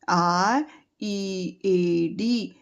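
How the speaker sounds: letters spelled out slowly, one by one; slow spelling out. Shown as a demonstration. Teacher to young pupils, spelling the word slowly. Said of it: "पढ़ने के लिए आता है रीड".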